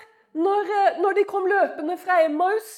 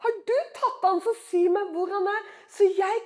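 pleading Maria. Retold or imitated. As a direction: ask tenderly where he is, as Maria. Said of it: "sier hun". (Maria spør bønnfallende)

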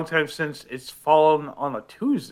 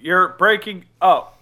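glitchy broken-up voice; robotic connection breakup; choppy robotic audio. Real, not acted. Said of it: "You sound like a robot".

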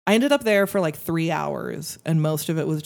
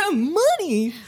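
laughing; 14 semitones higher, 4 dB louder than usual. Real, not acted. Laughing at friend's odd answer.

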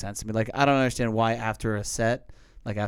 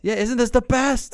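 much higher, slow, louder fake delight; sarcastic mock; 10 semitones higher, 5 dB louder than usual. Mocking the blinded people in front, sarcastic. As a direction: drag it out with sarcasm.

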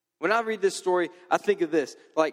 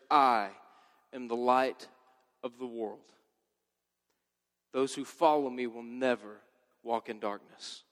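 lower, quiet and earnest, spoken as true words; solemn declaration; 9 semitones lower, 5 dB quieter than usual. Acted. Preacher quotes Jesus's declaration.

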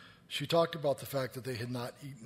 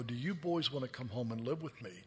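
softer, hushed invitation to the orphans; tender offer; 6 dB quieter than usual. Retold or imitated. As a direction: offer them a home, gently and quietly.

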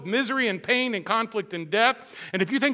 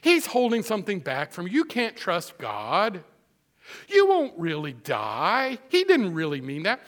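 lightly voiced sly serpent; serpent's voice; 2 semitones lower than usual. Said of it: "What was his strategy with Eve?".

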